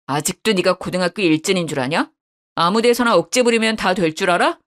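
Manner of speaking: scornful husband confronting his wife; cold angry husband. Acted. Son reads cold furious lines.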